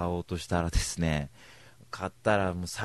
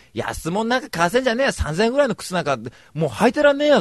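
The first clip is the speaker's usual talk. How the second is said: mock arrogant boast; 12 semitones higher, 5 dB louder than usual. Mock boastful rich attitude.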